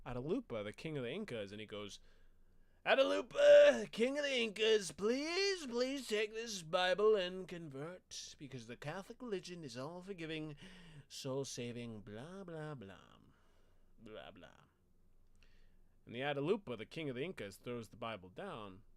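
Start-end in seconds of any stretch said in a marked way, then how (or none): 2.9-14.5 high, loud pleading friar voice. Retold or imitated. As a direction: beg the king high and loud like a preaching friar. Friar pleading to Inca king.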